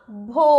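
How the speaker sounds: भो with breath after B, "oh" held; teacher's model भो with a stretched "oh"; long O sound. Shown as a demonstration. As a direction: draw out भो as "bhohh". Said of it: "तो ये बनेगा".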